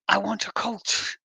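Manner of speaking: put-on slow, half-hearted Liverpudlian accent; badly faked Scouse, drawn out; attempted Scouse accent. Reading out the activist's leaked quote, in a failed Scouse accent. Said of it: "I can't do a Liverpudlian accent".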